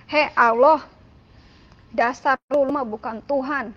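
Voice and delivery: retold defiant outburst, loud at the start; rough, loud outburst. Son defiantly addressing God after dawn prayer, rough and loud. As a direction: reenact a rude challenge spoken out loud. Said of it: "ngomong agak keras, ngomong agak kasar".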